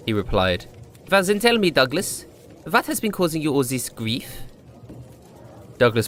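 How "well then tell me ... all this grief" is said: higher, inquisitive bartender voice; curious old bartender. Acted. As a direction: lean in, gently curious barkeep.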